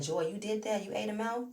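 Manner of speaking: nosy gossip voice. Retold or imitated. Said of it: "all the people speculating that".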